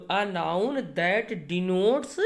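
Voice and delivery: slow enough for students to write down; slow dictation. Shown as a demonstration. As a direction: spell the definition out word by word, very slowly. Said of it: "सुन लीजिए ध्यान से". (शब्द-दर-शब्द बहुत धीमे बोलना)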